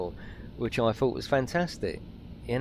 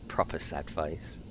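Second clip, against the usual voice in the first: laughing squeak; 8 semitones lower, 9 dB quieter, slower than usual. Real, not acted. Laughing at his own sad face moment, squeaky.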